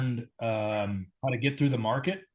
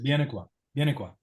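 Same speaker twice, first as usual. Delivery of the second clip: imitating Luigi calling; faster than usual. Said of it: "Luigi calling me out to the garden and said".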